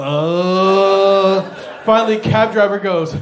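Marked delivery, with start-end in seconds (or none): 0.0-1.4 long queasy groan; mock retch. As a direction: let a retch swallow the word. Mitchell retching mid-promise.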